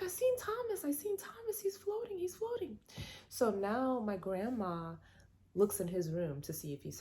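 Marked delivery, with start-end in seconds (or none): 0.0-2.8 high, urgent, repeating; frightened child insisting. Retold or imitated. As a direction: plead like a scared kid nobody believes.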